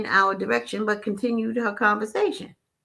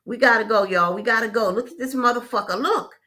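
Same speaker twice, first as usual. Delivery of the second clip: urgent, louder, rushing on the last lines; urgent half-scream; 3 semitones higher, 4 dB louder than usual. Retold or imitated. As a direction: hurry everyone out in alarm. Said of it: "all but screams at all of us".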